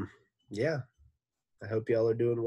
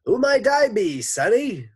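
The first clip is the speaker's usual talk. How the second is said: put-on high, loud old granny voice; cackling grandmother; 13 semitones higher, 13 dB louder than usual. A narrator's reading. Boy with borrowed voice, cackling grandmother. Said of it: "He sounded like somebody's grandmother".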